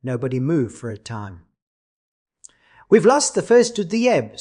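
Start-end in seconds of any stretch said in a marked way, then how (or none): 2.9-4.4 abrupt, higher and louder; sudden. Acted. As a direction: break the silence suddenly. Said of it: "said the director suddenly".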